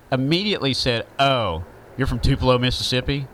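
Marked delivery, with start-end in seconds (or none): 1.2-3.3 mocking Southern accent. Woman mocking a man from Tupelo, in a light mock Southern accent. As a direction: lightly imitate a Southern accent to tease him. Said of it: "kinda did the accent and kinda was making fun of him".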